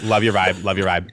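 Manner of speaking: a hint of a Southern accent. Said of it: "I know I just did a Southern accent".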